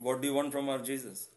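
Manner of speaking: quick, flat, businesslike question; a hint of a stern stranger's blank demand; blank, poker-faced. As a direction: ask it with an unreadable poker face. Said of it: "Like this, it said".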